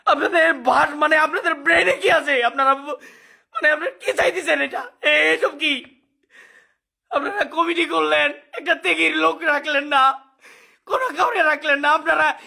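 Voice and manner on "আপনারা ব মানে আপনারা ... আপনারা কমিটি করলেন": choked-up sobbing questions; crying in disbelief; snotty crying. Real, not acted. Crying while complaining.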